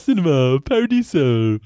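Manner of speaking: another mock Italian go at "Cinema Paradiso"; Italian accent. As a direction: show off the title in a put-on Italian accent. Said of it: "That was awful".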